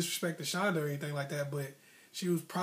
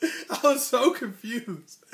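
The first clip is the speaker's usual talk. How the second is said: raised, slow bewildered voice; confused; 6 semitones higher, 6 dB louder than usual. Real, not acted. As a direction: play it high and slow, baffled and lost. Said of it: "I was confused".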